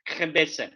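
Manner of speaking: khebeze with a throaty Arabic kh, said as "xebese"; Arabic pronunciation. Shown as a demonstration. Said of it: "sorry about my accent".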